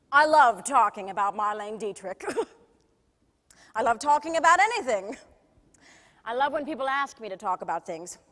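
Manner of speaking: lightly voiced showbiz star reminiscing; theatrical, self-mocking raconteur; classic singer. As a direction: tell wry backstage stories to an audience. Monologue as a classic singer, after plain introduction.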